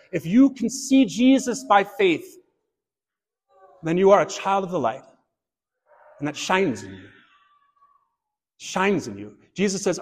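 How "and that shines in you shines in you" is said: much lower and softer, hushed; a quiet reverent echo of shines. Acted. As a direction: let the words sink in, almost to yourself. Preacher drops to an echo.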